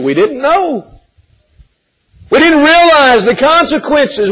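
panicked plea. Acted. Imagined crowd crying out in panic.

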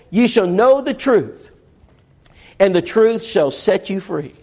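slow, weighty scripture quote; measured preacher's cadence; solemn scripture reading. Real, not acted. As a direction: read it like holy writ.

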